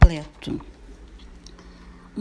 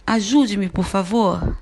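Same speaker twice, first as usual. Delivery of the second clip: louder, urgent plea; pleading request; 6 dB louder than usual. Shown as a demonstration. Teacher demonstrating an imperative plea, louder and urgent. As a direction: call for help urgently. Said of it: "Um exemplo de uma frase imperativa".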